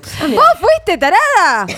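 high-pitched, playful accusation; exclamación acusadora. Real, not acted. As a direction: throw the blame back at a friend, pitch jumping up. Accuses friend of saying it. (acusación exaltada y aguda)

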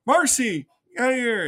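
lightly acted panicky command; urgent retold order. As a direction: imitate someone urgently shooing a friend away.

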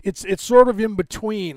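ordinary talk

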